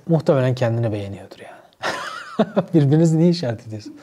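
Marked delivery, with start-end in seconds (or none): 1.8-2.7 breathy chuckle. Real, not acted. Laughing at own joke.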